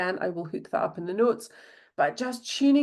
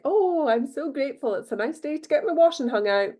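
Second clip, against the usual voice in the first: higher, bright mock-cheery thanks; cheery gratitude; 6 semitones higher than usual. Host quoting her own journal, mock cheery. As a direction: beam about the sunny day. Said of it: "I'm often writing about, like".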